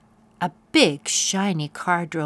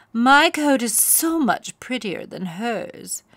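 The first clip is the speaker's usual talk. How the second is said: higher and louder, preening brag; boastful pony; 5 semitones higher, 6 dB louder than usual. A narrator's reading. Vain pony bragging about her coat, preening. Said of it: "said Plumpkin".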